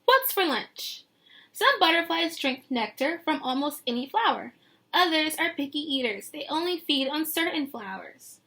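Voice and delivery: lilting picture-book read; reading to children. Acted. Teacher reading the book text to her class, lilting. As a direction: paint the scene for the kids.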